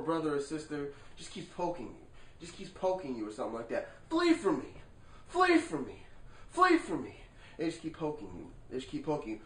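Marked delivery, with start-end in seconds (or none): 4.1-7.1 mock pleading. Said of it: "Finally, you turn".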